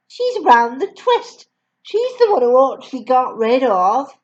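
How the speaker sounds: a hint of a scandalised teacher; inner thought. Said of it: "Miss Honey was telling herself".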